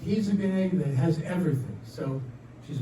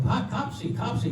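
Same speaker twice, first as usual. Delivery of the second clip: higher, softer pet-calling voice; calling the dog; 6 semitones higher, 5 dB quieter than usual. Acted. Wife calls her schnauzer, coaxing. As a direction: lightly coo the dog's name, pitched up. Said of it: "She calls the dog".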